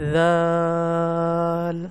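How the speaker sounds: ذال held very long, clear th-sound without any z; drawn-out Arabic letter. Shown as a demonstration. Quran teacher demonstrating the letter ذال, drawn out. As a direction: stretch ذال slowly for learners. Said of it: "آپ روک کے practice کریں".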